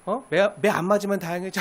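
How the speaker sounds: mock them quietly, with contempt; Satan taunting. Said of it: "사단이 주는 속임수에 빠져서". (낮고 조용하게 비웃는 사탄)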